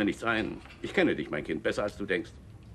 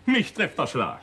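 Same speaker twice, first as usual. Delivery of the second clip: stunned; much slower than usual. Acted. Father stunned by daughter's outburst.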